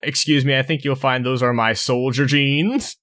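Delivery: Snake impression. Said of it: "And this is my Snake impression".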